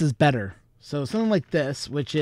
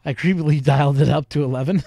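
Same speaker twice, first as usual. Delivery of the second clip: creepy voice; 7 dB louder than usual. Acted. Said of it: "that creepy voice of mine".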